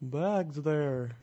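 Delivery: put-on light German accent. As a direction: keep the German accent going. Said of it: "This is my German accent".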